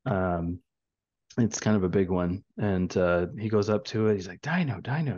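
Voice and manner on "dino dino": higher-pitched, lightly mimicked toddler excitement; a touch of childish excitement; excited toddler. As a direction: imitate a little kid thrilled by a dinosaur. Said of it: "He got all excited".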